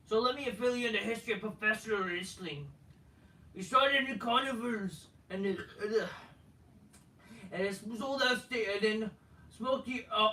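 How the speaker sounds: lightly voiced wrestler promo; put-on promo voice. Wrestler lecturing on wrestling history, put-on promo voice. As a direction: hold forth like a wrestler on the mic. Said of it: "I'm just gonna talk in normal voice".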